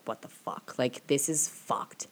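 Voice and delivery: hushed, slow disbelief; thinking aloud after a wild night, whispered; whispered inner quote. Retold or imitated. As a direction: whisper it to yourself, stunned. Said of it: "I was like".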